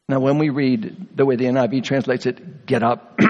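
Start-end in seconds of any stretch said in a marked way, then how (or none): 2.7-3.2 harsh. Shown as a demonstration. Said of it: "sounds a little harsh".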